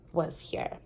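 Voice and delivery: whispered, fading to a breath; hushed close. A narrator's reading. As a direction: let the last words fall away softly. Closing line of the chapter.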